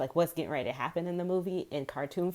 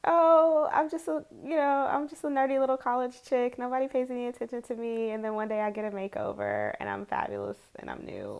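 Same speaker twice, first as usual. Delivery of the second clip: put-on higher, bubbly movie-girl voice that fades at the end; giddy rom-com heroine; 6 semitones higher than usual. Vlogger voicing a rom-com heroine, higher and gushing. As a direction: play the nerdy girl gushing about her makeover.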